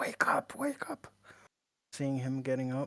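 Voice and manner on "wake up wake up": hushed, pressing, urgent whisper. Voicing a character rousing a sleeping companion: whispering. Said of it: "sort of whisper to him".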